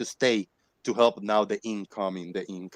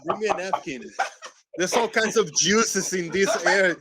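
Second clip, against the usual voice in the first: grossed-out exclaiming; 7 semitones higher, 6 dB louder than usual. Real, not acted. Disgusted at nephew's sweaty hair.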